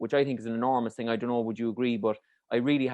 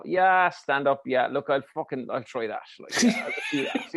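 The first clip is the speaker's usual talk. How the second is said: apathetic youngster. Retold or imitated. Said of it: "it's a bit like".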